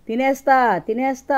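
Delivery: loud, high, menacing cry; ghostly shout. Acted. Hiding man shouting to scare off the thieves, loud ghostly cry. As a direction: yell it out like a ghost in the dark. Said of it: "అంటూ అరిచాడు".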